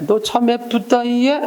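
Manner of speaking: teacher replaying Suni's sly compliment, mildly sarcastic. A hint of sneering sweetness. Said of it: "순이가 그렇게 말한 거야".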